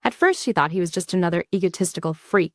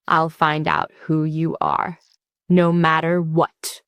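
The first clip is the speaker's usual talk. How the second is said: quiet vow; 3 semitones lower, slower than usual. Acted. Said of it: "Haru vows quietly".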